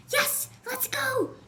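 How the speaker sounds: high, slow, drawn-out cheer; excited shout. A narrator's reading. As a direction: cheer it out as the pirates leave. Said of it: "Carmen shouted".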